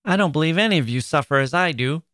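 high, fast, indignant outburst; Amy crying out. Acted. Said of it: "cried Amy".

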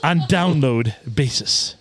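bad mock Russian accent reading a scam message; terrible Russian accent. Host reading a spammer's pitch in mock Russian accent. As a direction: ham up a Russian scammer's broken English. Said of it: "read that in a terrible Russian accent".

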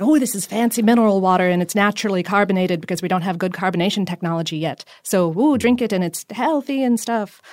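light, wispy ghostly voice; a hint of a spooky ghost. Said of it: "my ghost voice".

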